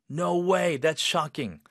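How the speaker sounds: high-pitched, shocked exclamation; strong shock. Shown as a demonstration. Teacher showing how shock should sound, strongly shocked. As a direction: let the shock come through forcefully. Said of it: "네, 좀 강하게 쇼킹한 느낌을".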